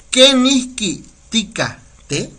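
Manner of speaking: Kenihki tika te, slow and clear; model pronunciation. Shown as a demonstration. Teacher showing the greeting for learners. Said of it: "Así".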